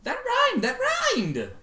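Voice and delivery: very high, gleeful cry; filly cheering over a rhyme; excited filly squeal. Acted. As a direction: squeal it with delight.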